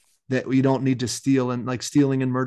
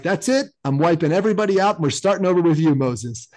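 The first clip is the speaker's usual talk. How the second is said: mildly exasperated, higher at the start then settling; fed-up God; 4 semitones higher, 3 dB louder than usual. Retold or imitated. God telling Moses he is starting over, mock exasperation. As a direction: lay down a final verdict, lightly acted.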